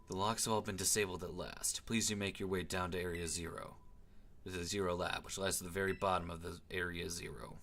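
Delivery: low, soft professor's voice; restrained, formal game-character delivery; composed professor. Acted. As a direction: give measured instructions, low and quiet.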